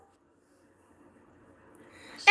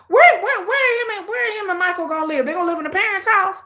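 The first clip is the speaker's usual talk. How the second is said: incredulous; 7 semitones higher than usual. Real, not acted. Exasperated reaction to TV show.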